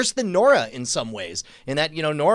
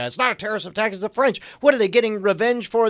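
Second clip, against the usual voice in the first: imitating French lilt; 6 semitones higher, 4 dB louder, faster than usual. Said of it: "he just fell right into that lilt".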